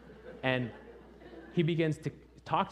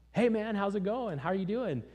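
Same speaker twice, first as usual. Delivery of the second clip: high, loud friendly hail; raised-pitch greeting across a yard; calling out; 11 semitones higher, 6 dB louder than usual. Retold or imitated. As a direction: call out to someone lurking in the dark. Calls out to lurker.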